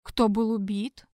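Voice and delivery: plain reading voice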